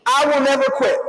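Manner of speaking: "I will never quit" called out as a firm creed line to be echoed; reciting a creed. Shown as a demonstration. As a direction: lead the final creed line for the room. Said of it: "let's say it together".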